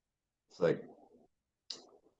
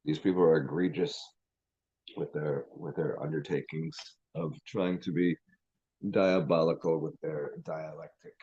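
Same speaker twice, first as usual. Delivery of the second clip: mock pompous. Shown as a demonstration. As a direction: play the pretentious word-dropper lightly, slowing on dialectic. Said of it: "cherry pick a few words and be fun with it".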